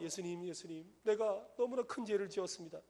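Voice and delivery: put-on mildly pleading young penitent; retold repentant prayer. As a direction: confess earnestly, as if recalling a tearful prayer. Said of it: "이러면서 막 회개하고".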